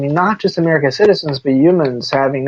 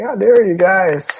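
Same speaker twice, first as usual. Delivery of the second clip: higher, drawn-out mock outrage; mock indignation; 5 semitones higher, slower than usual. Student objecting to being scolded, mock indignation. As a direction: act affronted, slow and pitched up.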